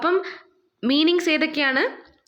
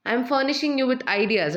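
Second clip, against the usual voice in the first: slow example sentence; much slower than usual. Shown as a demonstration.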